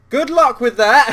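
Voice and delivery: loud, high mock cheer; a mocking send-off; sarcastic. Real, not acted. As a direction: wish them luck you don't mean. Sarcastic jab at NASA plan.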